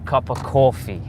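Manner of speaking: New York "coffee" with a rounded aw; New York accent. Shown as a demonstration. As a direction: imitate a New Yorker ordering cawfee. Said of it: "they say".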